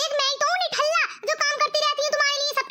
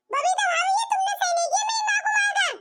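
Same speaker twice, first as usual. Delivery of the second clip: rising to a higher, shouted cry; anguished accusation; 5 semitones higher than usual. Acted. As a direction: yell at her in grief and anger. Son accuses bhabhi over mother. (माँ के लिए रोता-चिल्लाता बेटा)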